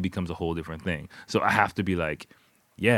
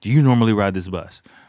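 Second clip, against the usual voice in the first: put-on stern tone, louder; 7 dB louder than usual. Retelling what a bus driver asked: imitating a stern bus driver. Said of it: "telling me sternly".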